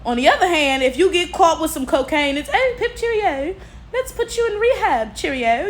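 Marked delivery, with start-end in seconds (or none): 2.5-5.7 much higher, prissy mock-posh "cheerio" voice; hammed-up posh English twit; posh British caricature. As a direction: lampoon a chirpy upper-class Brit. Mocking lenient treatment of white users.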